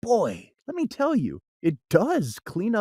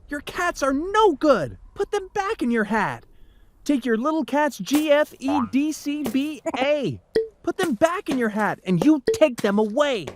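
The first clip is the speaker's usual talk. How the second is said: higher child voice, mild mock yell; children protesting; 6 semitones higher than usual. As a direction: complain up at the cat like a kid. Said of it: "we yelled at the cat".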